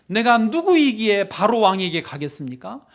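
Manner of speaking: acted-out complaint to God; mild preacher's imitation of a plea; plaintive appeal. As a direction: protest your unworthiness, pleading. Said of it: "하소연을 합니다".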